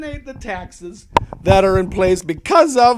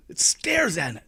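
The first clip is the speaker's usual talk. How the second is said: whisper; 3 semitones lower, 8 dB quieter than usual. Acted. Whispered end of monologue.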